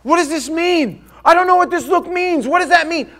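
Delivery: high, pleading bewilderment; a touch of helpless wonder; bewildered man. Retold or imitated. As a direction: ask it like a newly sighted man lost. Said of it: "he goes".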